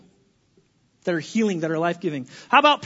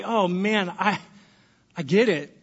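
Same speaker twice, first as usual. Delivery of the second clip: sympathetic; 4 semitones lower than usual. Shown as a demonstration. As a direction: comfort a friend, gently fading out. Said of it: "good things we can say".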